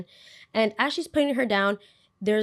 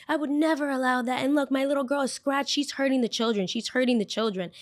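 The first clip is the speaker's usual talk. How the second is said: higher-pitched mock indignant mother; indignant accusation; 5 semitones higher than usual. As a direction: imitate an outraged parent accusing a teacher. Acting out the upset, accusing mother.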